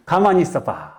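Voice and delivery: unhurried Chungcheong father. Retold or imitated. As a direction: stretch the ending while pondering. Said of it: "충청도 사람이 약간 느려요".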